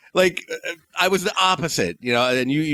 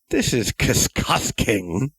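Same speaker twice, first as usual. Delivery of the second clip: disdainful verdict; much slower than usual. Retold or imitated. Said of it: "all of a sudden she's like".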